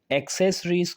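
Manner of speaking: American "एक्सेसरीज" starting with open ek; American accent version. Shown as a demonstration. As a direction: give the American accent form. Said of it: "उसमें कहा जाता है जो American". (American लहजे में "एक्सेसरीज")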